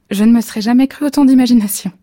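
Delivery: delighted. A narrator's reading. Wife delighted by her dream.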